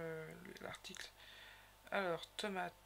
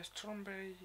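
French-accented English; 5 dB quieter, slower than usual. Real, not acted. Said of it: "Vous voyez mon accent qui est totalement pourri".

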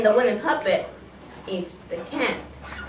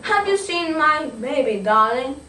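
puppet with a put-on African accent; 3 semitones higher than usual. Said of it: "Is that an African accent?".

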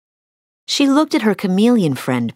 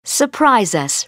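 excitedly; 5 semitones higher, slower than usual. Acted. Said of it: "Rapunzel answered excitedly".

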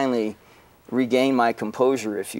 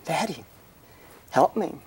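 put-on higher, pleading child's cry for his father; small child calling for daddy, voice raised high; terrified little boy; 6 semitones higher than usual. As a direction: beg like a scared three-year-old, pitched up. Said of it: "And he's just like".

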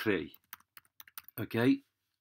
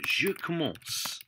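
slow model; 6 semitones higher, slower than usual. Shown as a demonstration. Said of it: "So you got je commence".

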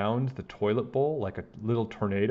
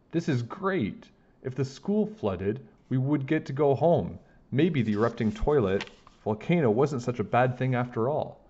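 gleeful thought; 3 semitones higher than usual. Acted. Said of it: "I thought".

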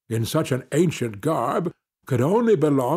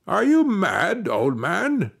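loud and harsh; 6 semitones higher, slower than usual. A narrator's reading. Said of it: "in loud and harsh tones".

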